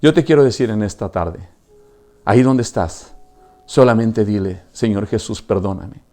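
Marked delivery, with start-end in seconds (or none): 4.7-6.0 guided prayer. Acted. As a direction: lead them gently in prayer. Leads a prayer of repentance. (oración guiada, suave y grave)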